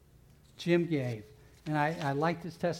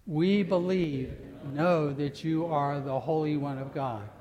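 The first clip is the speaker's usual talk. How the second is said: slow "We believe", then louder steady confession; loud declaration. Acted. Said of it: "The first time we're gonna emphasize".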